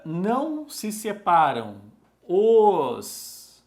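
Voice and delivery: drawn-out words with long pauses between; halting word-by-word classroom dictation; slow dictation. Real, not acted. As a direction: dictate at writing speed, stretching the syllables. Dictating the rule while writing it.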